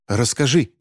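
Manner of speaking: urgent demand; demanding woman. Acted. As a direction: press the boy to tell. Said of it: "потребовала женщина". (требовательно)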